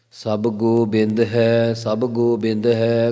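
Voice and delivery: slow, measured reverent recitation; scripture recitation. Acted. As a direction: intone the opening verse slowly. Reciting Gurbani line in katha. (ਹੌਲੀ ਸ਼ਰਧਾ ਭਰਿਆ ਪਾਠ)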